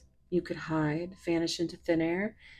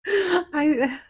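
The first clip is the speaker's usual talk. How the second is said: loud, higher giggling through words; can't stop laughing, louder; 10 semitones higher, 12 dB louder than usual. Real, not acted. Laughing fit after flubbing words.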